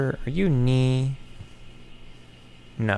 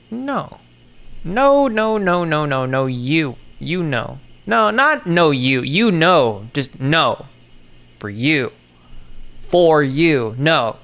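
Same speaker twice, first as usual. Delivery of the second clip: mock protest; 3 semitones higher, 5 dB louder than usual. Exaggerated no you denial.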